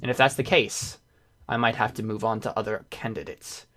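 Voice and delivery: pressuring negotiator. Acted. Negotiator pressing Sergio to make up his mind, insistent. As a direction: lean on him for an answer. Game master voices an impatient figure.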